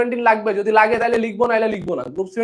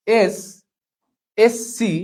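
drawn out; much slower than usual. Shown as a demonstration. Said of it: "drawn-out mnemonic demo".

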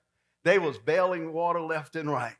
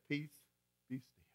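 calm command; 12 dB quieter than usual. Retold or imitated. Jesus speaking to the storm, soft command. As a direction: still the storm softly. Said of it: "all he did is said".

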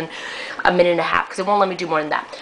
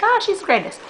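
imagined fan gush. Pretend. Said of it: "You'll be like".

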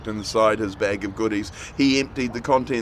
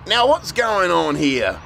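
put-on girl's voice; 6 semitones higher, 4 dB louder than usual. A narrator's reading. Robin confused by group.

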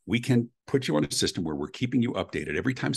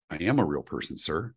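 understated, lower-energy correction of a customer; restrained agent reply; 3 semitones lower than usual. Retold or imitated. Cable agent correcting caller who took him for recording, restrained reply. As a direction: imitate a patient agent answering without any shouting.

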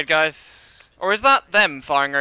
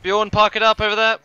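raised, carrying instruction to the driver; called-out order; 4 semitones higher, 3 dB louder than usual. Pretend. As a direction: call over to the driver. Calling to the driver.

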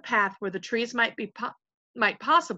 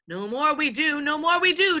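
higher-pitched, eager echo; chiming chorus; 7 semitones higher, 5 dB louder than usual. A narrator's reading. Followers echoing their invisible chief, eagerly. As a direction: chime in like agreeable yes-men. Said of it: "chimed in the others".

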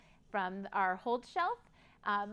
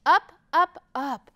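rising excitement; 3 semitones higher, 8 dB louder than usual. A narrator's reading. Narrator following the kite as it soars, excited.

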